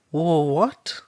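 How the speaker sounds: high, loud, startled what; stunned what. A narrator's reading. Mother caught off guard by the offer, startled.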